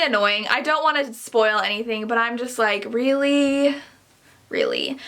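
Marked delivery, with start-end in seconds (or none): 2.9-3.8 drawn-out, incredulous "really?"; incredulous, a little raised; exasperated disbelief. Acted. Fed-up reaction to the trope. 4.5-5.0 very low, deadpan "really"; low, fed-up repeat of the question; unimpressed disbelief. Acted.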